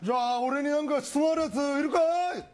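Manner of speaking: put-on high, excited turtle voice calling out to the kids; hyped-up sea turtle greeting fans. Turtle takes questions.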